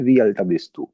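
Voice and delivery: वी अल्टा बिस तू read as German; German sentence. Shown as a demonstration. Teacher models a German question, clear delivery. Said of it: "हम German में इसको बोलते हैं".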